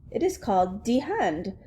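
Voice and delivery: put-on rough French-accented English. Alice teaching the princess, French accent. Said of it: "hear this in a French accent".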